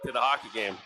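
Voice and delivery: brisk running hockey commentary; play-by-play. Acted. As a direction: follow the puck line by line.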